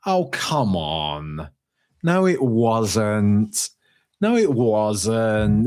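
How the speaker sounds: slow, drawn-out no it wasn't; exasperated protest. Real, not acted. Host to fan comment, slow exasperated denial. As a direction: push back hard on each word, slowly.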